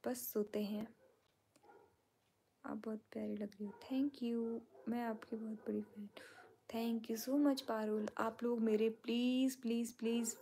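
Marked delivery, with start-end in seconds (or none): 0.1-8.1 soft whisper reading fan comments late at night. Real, not acted. Streamer whispering viewers' comments aloud to her fans. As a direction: hush it, others are asleep.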